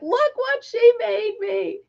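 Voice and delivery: high, slow, thrilled squeal; excited show-off. Retold or imitated. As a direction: show it off like a giddy kid. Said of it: "I'm like".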